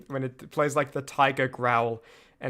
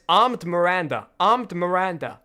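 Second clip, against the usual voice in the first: American accent demo; 3 semitones higher, 4 dB louder than usual. Shown as a demonstration. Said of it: "that's tough".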